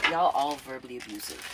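loud, firm scolding; loud stern scolding; angry confrontation. Real, not acted. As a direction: lay down the law to the family. Confronting family loudly.

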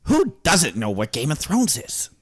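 lightly voiced author with a jumpy pitch; George. Author introducing himself to podcast listeners, lightly put-on character voice. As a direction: play a mildly incredulous famous writer. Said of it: "I'm George".

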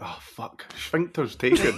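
imagined product designer. Retold or imitated. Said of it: "they went".

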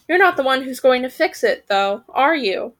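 mild testy raven; a touch irritated raven; lightly testy raven voice. Acted. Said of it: "replied the third testily".

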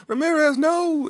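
loud, high mock wail; overblown, high-pitched shout; dramatic cry. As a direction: call out hammed-up after a lost comrade. Repeats the acted cry.

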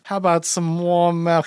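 lightly voiced hostess, drawn out; housekeeper offering drinks. Housekeeper slinking back to offer milk, lightly imitated. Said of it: "slinks back backwards and is just like".

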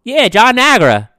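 a hammed-up caller stating his name. Caller voiced in phone story.

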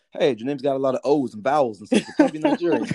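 laughing through the words; amused, chuckling tease. Retold or imitated. Teasing quote about Nigerian names.

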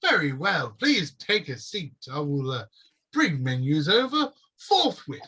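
a touch of fussy politeness; prim elf shopkeeper. Acted. Elf shopkeeper promising menus, lightly sing-song.

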